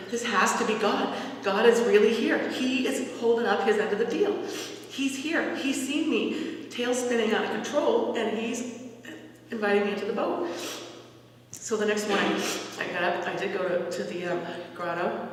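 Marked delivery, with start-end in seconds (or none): 0.1-10.5 rising excitement, louder and higher; a mild rush of joy as it dawns on her; thinking it over in bed, growing excited. Retold or imitated. Thrilled realization God is present.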